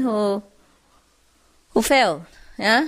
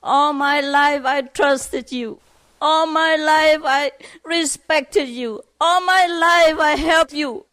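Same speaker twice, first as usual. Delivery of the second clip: higher-pitched, wounded scolding; imitated near-tearful reproach; 5 semitones higher than usual. Father scolding his best friend, acted near-tearful reproach. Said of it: "and nearly cried, saying".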